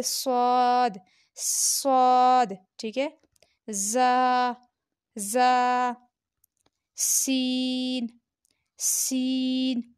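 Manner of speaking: सौद जा सीन hissed and drawn out, the last सीन whispered; a whistling-letter drill; like a whistle. Shown as a demonstration. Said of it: "इसे हम सीटी की तरह पढ़ेंगे".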